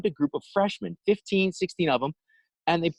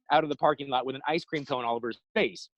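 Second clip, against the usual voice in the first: ordinary talk, nothing marked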